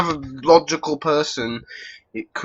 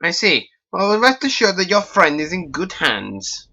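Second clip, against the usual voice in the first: stork doctor; 4 semitones higher, 3 dB louder than usual. Acted. Doctor voiced in dialogue.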